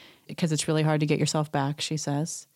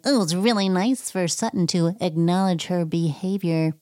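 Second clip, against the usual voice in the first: mock Erica. Mocking Erica's line.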